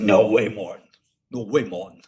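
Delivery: lightly voiced shop owner in disbelief; a hint of the bagel man's way of talking; Tony. Shop owner answers customer's coffee complaint, mild impression. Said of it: "That's how he talks".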